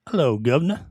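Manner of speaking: put-on first tame try at a British accent; a lightly put-on British greeting; mild Cockney hello; English accent. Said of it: "Do your, do your English accent".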